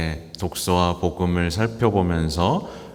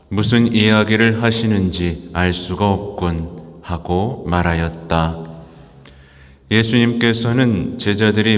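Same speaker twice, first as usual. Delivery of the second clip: measured liturgical proclamation; Gospel reading. Acted. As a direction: read it solemnly as scripture. Priest proclaims the Gospel at Mass.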